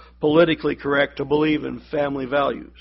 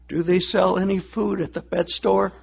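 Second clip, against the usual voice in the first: weak voice; 3 semitones higher than usual. Retold or imitated. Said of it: "In a very weak voice".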